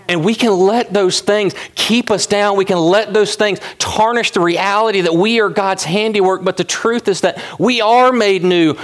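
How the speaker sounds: preaching. Acted. Pastor preaching to his congregation, fervent. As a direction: drive it home to the church.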